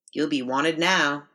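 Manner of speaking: slow, breathy character voice. A narrator's reading. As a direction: draw it out on a light breath. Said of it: "the first woman says breathily".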